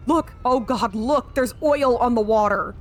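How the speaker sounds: alarmed cry. Acted. Reads a character's cry of alarm.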